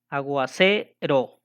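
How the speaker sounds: aguacero slowly, CE held long; stress on CE. Shown as a demonstration. Teacher marking the last stressed vowel in aguacero, long held CE. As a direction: stretch CE in aguacero, ro set apart. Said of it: "La última vocal acentuada".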